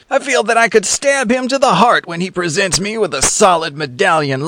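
lightly voiced, hammed-up young lady; mock swoon over her true love; a touch of stage heroine; melodramatic heroine. Alice's melodramatic speech.

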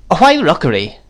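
high, abrupt exclaimed question; sudden demand. A narrator's reading. Miss Betsy questioning the house name, suddenly. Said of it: "said Miss Betsy suddenly".

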